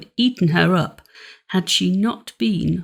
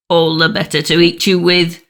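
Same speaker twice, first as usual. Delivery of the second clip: wolf's answer; 2 semitones lower, 4 dB louder than usual. Acted. Wolf reveals himself.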